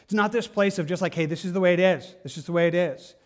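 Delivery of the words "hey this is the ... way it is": brisk, matter-of-fact dismissal; quick cold this is the way it is; cold and callous. Shown as a demonstration. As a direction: lay it down like a curt rule-giver. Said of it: "just cold and callous".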